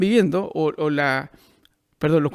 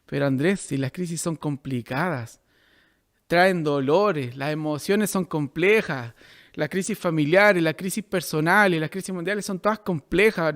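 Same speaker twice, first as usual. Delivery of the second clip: doubting objector; 4 semitones lower, 3 dB quieter than usual. Acted. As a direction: voice a mildly discouraged protest. Voices a listener's objection to him.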